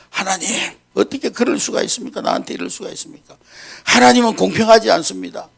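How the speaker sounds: aggrieved, pleading protest to God; complaining prayer. Acted. 불평하며 하나님께 따지는 기도. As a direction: grumble at God, rising on the last line. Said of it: "원망하면서 막 기도하는 거예요".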